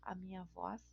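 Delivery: talking through a painful sore throat; hoarse, sparing the voice. Real, not acted. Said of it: "tô com dor de garganta".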